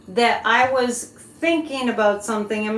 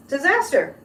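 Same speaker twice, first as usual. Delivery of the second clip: fortune teller. Real, not acted. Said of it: "I'm just gonna give you my psychic impression".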